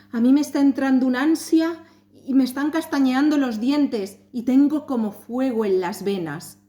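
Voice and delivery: anxious dread. Acted. The stepmother tells her husband of her dread, agitated. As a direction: sound like panic rising inside.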